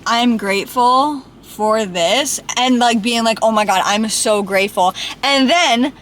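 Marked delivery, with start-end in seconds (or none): 0.1-2.4 flat gratitude. Shown as a demonstration. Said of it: "it's such a different feeling being like". 3.4-4.9 heartfelt gratitude. Shown as a demonstration. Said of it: "it's such a different feeling being like".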